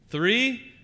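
high, rising "Three?"; surprised question. Real, not acted. Playing hot and cold.

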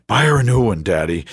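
lightly voiced eager little boy; child voice. Son answering father.

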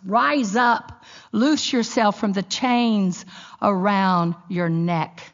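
scripture reading, proclaimed. Real, not acted.

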